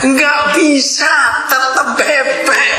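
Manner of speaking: high, slow, laughing stress on tetap bebek; emphatic punchline. Acted. Preacher giving the congregation the duck punchline, slow emphatic laugh. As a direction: land it with a grin.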